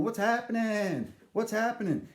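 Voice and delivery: lightly voiced, lively greeter calling out; animated greeter. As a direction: imitate an excited man waving at the ramp. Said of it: "this animated guy going".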